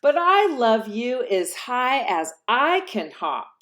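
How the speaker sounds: a bright, pleased big-hare voice; smiling big hare. Acted. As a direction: answer with a proud smile. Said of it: "smiled Big Nut Brown Hair".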